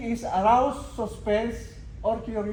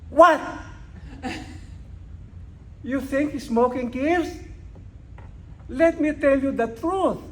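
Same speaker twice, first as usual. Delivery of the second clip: emphatic and confident; 3 semitones higher than usual. Retold or imitated. A speech champion telling his audience, emphatic and confident. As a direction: declare it as if you own the subject. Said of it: "He said it emphatically with confidence".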